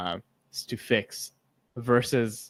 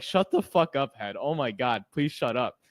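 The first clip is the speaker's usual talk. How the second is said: gut snapping at head; 3 semitones higher than usual. Retold or imitated. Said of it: "my gut's like".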